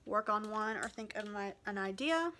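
out of breath from stairs; winded from running downstairs. Real, not acted. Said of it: "Sorry, I'm out of breath".

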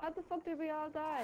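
slow, high, stunned question; baffled at the wipe; stunned disbelief. Real, not acted. Whole squad suddenly dead.

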